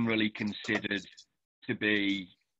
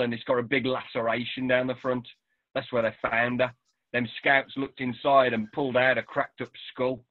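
dialect story reading. Acted. Author reading his novel aloud to the interviewer, Black Country dialect narration. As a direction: perform the passage like a local telling a tale. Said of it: "that dialect and that voice performance absolutely brings the text alive".

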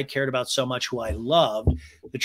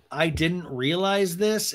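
mock realization; 4 semitones higher, slower than usual. Mimics her claimed realization.

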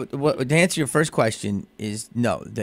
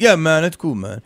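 heckler agreeing; 6 semitones higher, 6 dB louder than usual. Retold or imitated. Heckler voiced in story.

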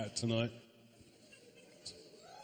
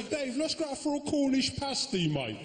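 English mate; 10 semitones higher than usual. Retold or imitated. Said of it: "I don't say".

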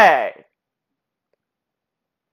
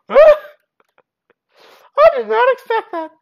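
rattled laugh; 11 semitones higher, faster than usual. Real, not acted. Player surprised by the bear attack, rattled laughing squeak. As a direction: squeak it out in giddy disbelief.

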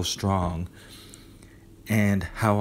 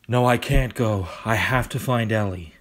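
desperate; 2 semitones higher, 4 dB louder than usual. Acted. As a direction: insist on staying. Refusing to leave, desperate.

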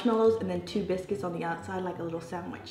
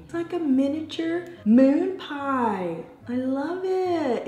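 delighted gushing; 7 semitones higher, 4 dB louder, slower than usual. Real, not acted. Loves tiny moon pie.

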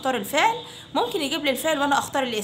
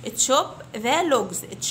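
put-on very slow, clear drill phrase for children to repeat; slow model phrase; much slower than usual. Shown as a demonstration. Teacher to fifth graders, model phrase very slowly. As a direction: stretch each word out for the class. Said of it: "Repeat after me".

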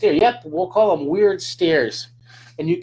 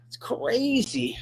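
breathy whispered aside, half to himself; 8 semitones higher, 6 dB quieter, slower than usual. Real, not acted. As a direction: whisper it like a small private wonder. Telling viewers about Jonathan's age.

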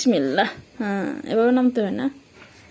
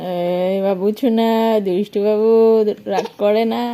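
drawn-out soothing coo, a little louder; 3 semitones lower, 4 dB louder, slower than usual. Real, not acted. Mother soothes her cross baby boy, slow and coaxing.

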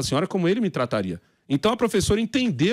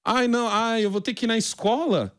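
mock lazy parent; 5 semitones higher than usual. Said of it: "muitos pais estão preguiçosos".

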